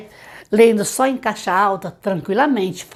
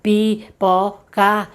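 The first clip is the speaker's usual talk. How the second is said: very slow, PIPOCA split into pi, po, ca; laboured, separated syllables; syllable-by-syllable reading; much slower than usual. Shown as a demonstration. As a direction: imitate a child sounding out each syllable. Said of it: "quando ele tá lendo silabado aqui".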